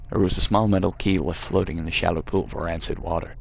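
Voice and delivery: put-on reading the game text in a light American accent. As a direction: narrate it like an American storyteller, gently put on. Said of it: "I'm really regretting doing the American voice now".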